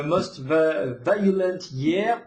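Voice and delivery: self-conscious attempt at an English accent. Shown as a demonstration. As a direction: sound out the English title deliberately in an English accent. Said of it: "avec mon bel accent".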